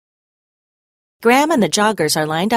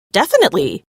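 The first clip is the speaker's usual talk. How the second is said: eager; 7 semitones higher, 3 dB louder, faster than usual. A narrator's reading. Buddy eagerly agrees.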